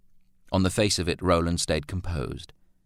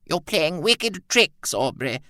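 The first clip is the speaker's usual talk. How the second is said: high and slow, louder with hurt; bitter accusation; 11 semitones higher, 3 dB louder, slower than usual. A narrator's reading. Mother accusing Aubrey of cruel tricks, high and hurt. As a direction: spit out the accusation, wounded. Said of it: "she hissed".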